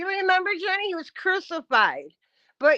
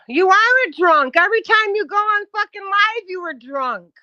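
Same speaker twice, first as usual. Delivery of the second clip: raised, high-pitched accusing voice; angry accusation; 7 semitones higher, 5 dB louder than usual. Real, not acted. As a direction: accuse them loudly, pitch climbing. Accusing someone in a quarrel.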